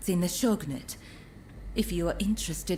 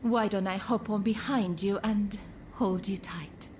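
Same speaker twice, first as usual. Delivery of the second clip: whispered, coy invitation; flirtatious whisper. Acted. Courtesan flirting with the hero about his steed, whispered. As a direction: purr the offer to ride behind him.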